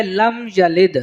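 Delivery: "لم یلد" with held m and quick ya; short ya. Shown as a demonstration. Teacher models the next phrase, "لم یلد" with short ya. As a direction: keep the vowel of "ya" brief in "لم یلد". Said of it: "جلدی پڑھا جائے گا".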